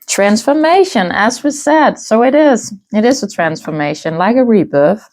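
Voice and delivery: talking with food in mouth; mouth full. Real, not acted. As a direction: speak around a mouthful. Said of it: "I have something in my mouth".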